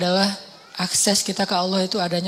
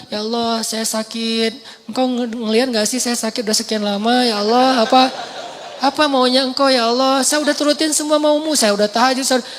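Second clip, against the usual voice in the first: whiny complaining prayer; 2 semitones higher than usual. Retold or imitated. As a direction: nag God like a grumbling customer. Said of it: "ngeluh ini namanya bukan doa, komplain".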